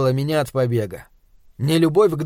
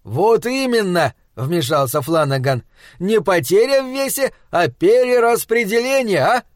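eager; 5 semitones higher than usual. Acted. Husband chimes in.

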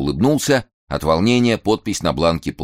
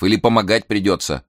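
doubtful; 5 semitones higher, 3 dB louder than usual. Acted. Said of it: "недоверчиво посмотрел".

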